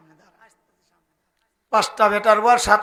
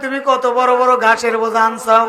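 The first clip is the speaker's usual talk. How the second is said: mock weeping lament; 2 semitones higher, 4 dB louder than usual. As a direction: imitate sons wailing over their father. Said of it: "কান্দে আর বলে". (কান্নার সুরে বিলাপের অভিনয়)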